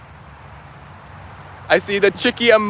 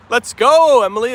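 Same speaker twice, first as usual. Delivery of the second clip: excited; 4 semitones higher, 5 dB louder than usual. Real, not acted. Cheering a new chat viewer.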